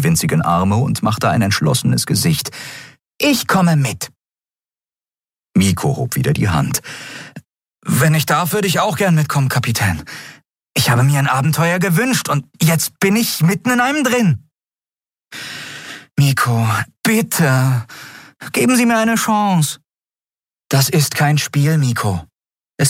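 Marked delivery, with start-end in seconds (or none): 3.2-4.1 hohe, entschlossene Stimme eines winzigen Wesens; entschlossen, klein und hell sprechen; kleine Nelen, entschlossen. Acted. 7.8-19.8 hohe, eifrige, bittende Stimme; eifriger junger Miko. Acted.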